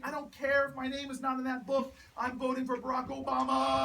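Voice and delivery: mock yell, drawing out the last name; retold yelling. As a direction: re-enact a stubborn voter's protest.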